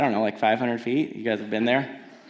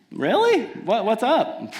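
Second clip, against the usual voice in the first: high startled really; mock surprise; surprised; 3 semitones higher than usual. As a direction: jump up in pitch, surprised. Retold surprise at rental desk.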